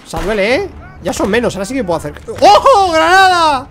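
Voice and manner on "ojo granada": high, loud alarm; shouted warning. Real, not acted. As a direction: yell out a grenade alert. Grenade warning in game. (grito de alarma)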